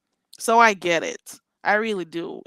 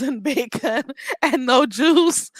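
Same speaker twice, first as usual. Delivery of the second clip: sassy; 6 semitones higher, slower than usual. Real, not acted. Sassy mocking the hangover advice.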